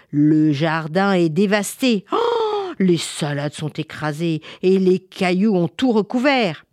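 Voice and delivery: mother crying out. Acted. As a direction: lament the wreck in alarm. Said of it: "Maman crie les bras en l'air".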